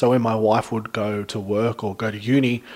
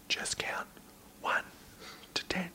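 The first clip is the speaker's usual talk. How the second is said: whispered instruction; quietly direct, barely audible; 5 semitones higher, 19 dB quieter than usual. Retold or imitated. Cop at the breath test, whispered instruction. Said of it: "he goes".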